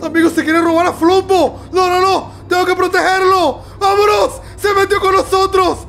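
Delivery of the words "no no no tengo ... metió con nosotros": high, urgent mock alarm; playful panic. Gamer fleeing Jester with the baby, mock-panicked. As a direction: hurry the baby away from the monster.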